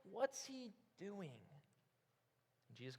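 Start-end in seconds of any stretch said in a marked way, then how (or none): 0.1-1.3 hushed, slow aside, much softer; mock whisper. Disciples aside to each other, mock whisper. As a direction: voice a puzzled murmur to the side. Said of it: "are whispering to the side saying".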